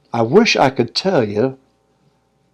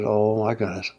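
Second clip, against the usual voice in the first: low, soft retold dismay; understated stunned murmur; hushed dread; 3 semitones lower, 7 dB quieter than usual. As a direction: quietly act out a sinking realization. Repeats his retold dread.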